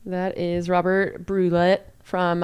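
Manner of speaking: put-on halting French accent on the name; slow attempt at a French accent. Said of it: "Need to work on my French accent".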